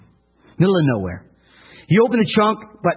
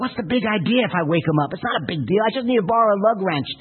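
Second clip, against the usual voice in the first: grumbling to himself; 5 semitones higher, faster than usual. Retold or imitated. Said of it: "saying things to himself".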